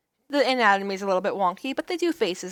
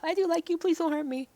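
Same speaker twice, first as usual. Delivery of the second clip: reading a game choice; 8 semitones higher than usual. Acted. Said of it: "that one's Dark Path".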